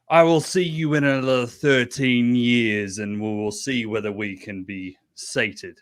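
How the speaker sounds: lightly voiced god, starting loud then easing; fiery god. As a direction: pronounce it like a god's decree. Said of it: "appears in all his fiery glory".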